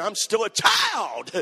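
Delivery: drawn-out wail, rising above the rest; mock crying daddy. Daddy asked to change the baby, mock childish wail. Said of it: "then daddy begins to cry".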